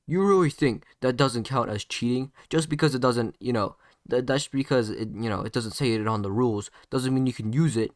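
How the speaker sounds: half-shouted, insistent protest; shouting in argument. Acted. Sasuke protesting the rules to Naruto, shouting. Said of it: "would keep on shouting".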